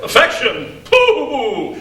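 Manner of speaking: high, loud mocking laugh; scoffing laugh. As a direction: laugh the idea off with scorn. Father scoffing at daughter.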